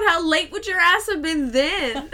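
laughing alarm at a friend's risk; laughing scold. Real, not acted. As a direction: tease her while laughing.

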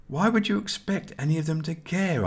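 ordinary delivery, nothing marked

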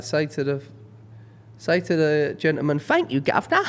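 hammed-up "thank you, guv'nor" to a child; playful put-on voice, pitch jumping up on the punchline; mock mum coaching. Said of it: "She'll be like".

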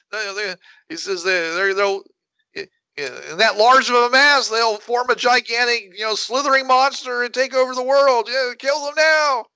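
high, eager alien chatter. Pretend. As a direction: keep the squeaky alien going. High voice continues alien speech.

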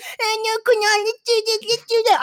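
put-on high, babyish whiny voice; squeaky baby-talk impression; rapper's baby voice. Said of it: "the rapper's baby voice".

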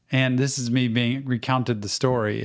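usual speaking voice

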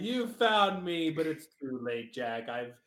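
slow, hammy cartoon villain voice; mad scientist. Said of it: "Christian Shepherd's like".

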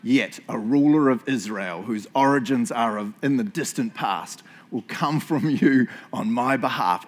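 put-on slow, portentous old wizard reading; Gandalf. Preacher reading prophecy to the congregation, slow wizardly gravitas. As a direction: intone it as a grand wizard, drawing out the words. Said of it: "imagine that I'm Gandalf in Lord of the Rings".

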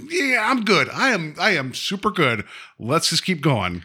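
high, nervous brush-off that drops back down; nervous driver. Retold or imitated. Podcast host imitating a nervous driver passing a scary farmhouse.

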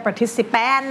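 "Participant" with a drawn-out, full -paaan at the end; mock the mistake, stretching the last A of "Participant"; exaggerated Thai-style -pan on "Participant"; wrong -pan ending. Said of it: "นี่ไม่เอานะคะ".

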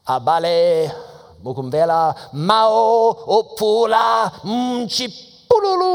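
high, loud, drawn-out booming proclamation; dramatic booming announcer. Retold or imitated. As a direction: boom it out like a grand radio voice from the heavens. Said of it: "I don't know what got into him".

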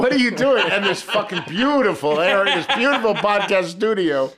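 laughing through the words; after laughing hard. Real, not acted. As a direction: still giggling from the big laugh. Group laughing hard, "I'm crying.

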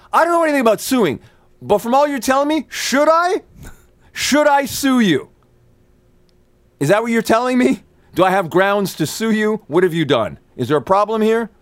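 very high, incredulous challenge; indignant mock interrogation. Actor challenging studio executive over suing, high and indignant. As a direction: fire questions high-pitched, building outrage for effect.

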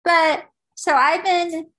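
slow shaky breath out; trembling, slow and unsteady; shaky sigh. Real, not acted. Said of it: "I'm gonna try not to cry".

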